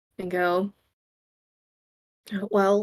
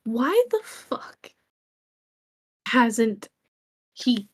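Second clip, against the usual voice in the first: a mild ranting build, louder on shown himself; agitated muttered rant; 3 semitones higher, 3 dB louder than usual. Acted. Finn rants to himself about Valor, mildly agitated. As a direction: mutter it, getting worked up. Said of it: "rant again under his breath".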